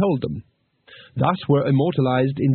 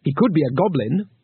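defiant; 3 semitones higher than usual. Acted. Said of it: "said Two Flower defiantly".

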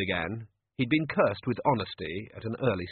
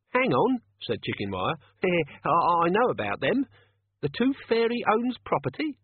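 much higher, eager blurting; a simple crook bursting with his discovery; excitable henchman; 8 semitones higher than usual. Acted. Excited Chicken Wire blurts news.

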